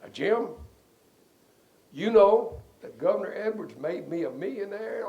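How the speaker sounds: high, loud announcement in front of everyone; boisterous co-defendant. Retold or imitated. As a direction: imitate a big man blurting it out. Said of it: "up in front of the media and everybody one day said".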